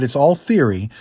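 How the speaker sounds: ordinary talk, nothing marked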